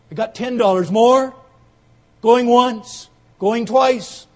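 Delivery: loud auctioneer calling going once; auctioneer's call. Acted. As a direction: drive the sale home loudly. Auctioneer closing the sale.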